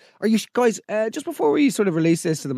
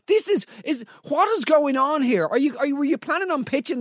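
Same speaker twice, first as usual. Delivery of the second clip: higher, disbelieving outburst; incredulous; 7 semitones higher than usual. Real, not acted. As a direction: sputter in disbelief.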